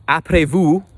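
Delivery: Après vous in a French accent; French phrase. Shown as a demonstration. Vlogger trying out French to the camera, Après vous in French. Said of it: "wait, not after you".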